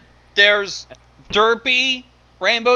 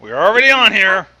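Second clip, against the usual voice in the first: loud alarmed shout; real shout; 7 dB louder than usual. Real, not acted. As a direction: yell in laughing alarm. Shouting at co-reader.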